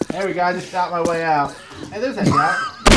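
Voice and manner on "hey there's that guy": very high, slow and loud squeal; excited squeal. Real, not acted. Gamer spots an enemy and squeals, excited. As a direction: shriek it out in delight.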